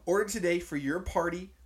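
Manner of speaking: ad line cracking up with laughter; laughing through it. Real, not acted. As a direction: try to read while laughing.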